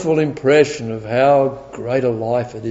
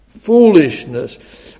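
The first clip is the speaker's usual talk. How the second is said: slow emphatic; much slower than usual. Real, not acted.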